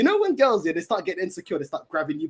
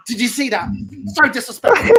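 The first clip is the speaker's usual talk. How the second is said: louder, prim put-on outrage; mock outraged girlfriend; 2 semitones higher, 6 dB louder than usual. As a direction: play the offended girlfriend. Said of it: "And she goes".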